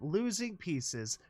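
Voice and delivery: slow deliberate robotic words. Acted. Computer voice explaining decay, slow and mechanical. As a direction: spell it out slowly, mechanically. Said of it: "automated voice".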